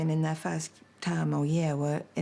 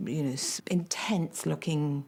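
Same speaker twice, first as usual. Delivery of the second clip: whisper. Real, not acted. Whispered description.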